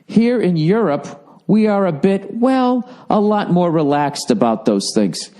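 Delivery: mock European. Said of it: "He said".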